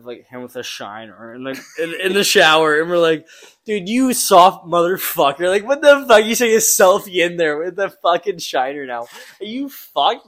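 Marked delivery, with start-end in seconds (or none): 3.7-10.3 loud, higher mock taunt; mocking teammates. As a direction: razz him for the selfie. Teammates mocking the shower selfie.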